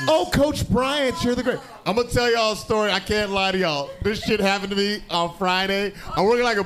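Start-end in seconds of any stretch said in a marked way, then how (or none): 0.1-1.6 imitating students. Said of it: "they're like".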